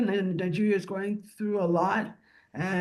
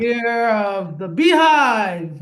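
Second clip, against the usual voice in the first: joking; 7 dB louder, much slower than usual. Pretend. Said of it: "I'm just joking".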